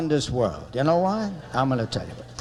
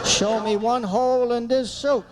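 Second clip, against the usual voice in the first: higher, insistent protest; defensive husband; 4 semitones higher than usual. Retold or imitated. Husband defending old suit to wife, defensive. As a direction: imitate a husband sticking up for his suit. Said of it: "Every husband has the same answer".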